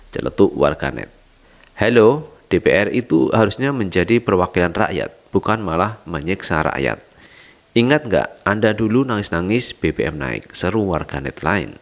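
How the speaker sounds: brisk, bright newsreader delivery over music; upbeat infotainment news voice; news read. Acted. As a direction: read it like an entertainment news anchor. Reads a news report.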